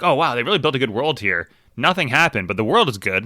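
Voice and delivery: high, gushing mock praise; mock gushing reader. Mocking a fan who praises the world-building, high and gushing. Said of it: "you can't just be like".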